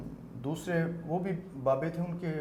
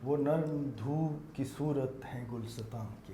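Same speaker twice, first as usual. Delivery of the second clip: naat recitation; 2 semitones lower, 5 dB quieter than usual. Acted. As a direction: recite each word with weight. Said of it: "نعت کے چند شعر پیش کرنا چاہوں گا".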